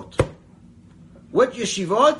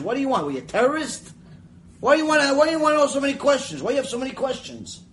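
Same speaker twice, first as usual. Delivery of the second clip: annoyed Israeli grilling an American who asks too much; suspicious Israeli; 6 semitones higher, faster than usual. Retold or imitated. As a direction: push back hard at the stranger. Israelis rebuffing a questioner.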